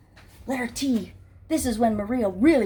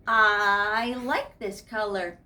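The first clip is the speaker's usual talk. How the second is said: pleased gentleman; slower than usual. Acted. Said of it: "And he said".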